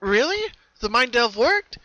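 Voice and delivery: put-on worried young pony; Twilight voice. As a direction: check gently on a friend.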